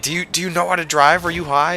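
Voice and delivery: high-pitched mimicry of an accusing driver; mocking imitation. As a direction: fire off indignant questions in a mock high voice.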